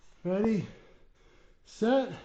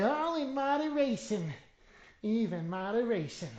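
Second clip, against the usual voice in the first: lightly voiced grandma, higher pitch; a hint of a granny voice; Nana voice; 3 semitones higher than usual. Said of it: "That's my Nana voice".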